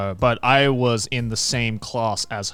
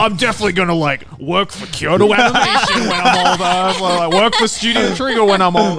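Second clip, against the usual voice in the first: put-on high cute anime girl; 7 semitones higher, 7 dB louder than usual. Excited kid's anime dream quote.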